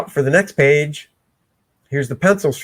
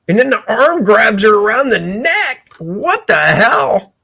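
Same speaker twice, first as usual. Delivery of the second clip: mock alarm; 6 semitones higher than usual. Mock alarm at the moving arm.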